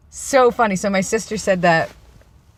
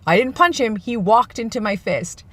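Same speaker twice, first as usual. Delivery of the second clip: amused protest; 4 semitones higher than usual. Retold or imitated. Sister protests her innocence.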